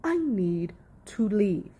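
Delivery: slow, measured imitation through the teeth; imitating pissed off. Commentator quoting a riled-up husband who needs out, slow and tight-toothed. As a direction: say it slowly, as if holding anger in. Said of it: "like, talking through his teeth".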